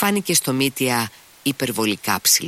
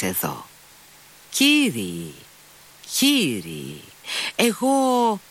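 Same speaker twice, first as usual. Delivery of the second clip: excited Mitya; 2 semitones higher than usual. A narrator's reading. Mitya voiced in the story.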